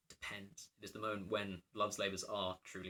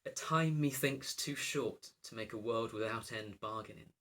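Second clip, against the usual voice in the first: lightly performed verse line; recited reply; 4 dB louder than usual. Acted. Lecturer quoting the princess's reply, lightly recited. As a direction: recite it measured, at near-conversational volume. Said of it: "To which the princess replies".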